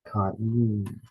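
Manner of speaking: "Ka-yin" with the ah sounded on its own; separated vowels. Shown as a demonstration. Teacher repeating the diaeresis example, "Ka-yin" with each vowel separate. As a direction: say "Ka-yin" as two syllables, no diphthong. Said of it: "the ah is pronounced individually".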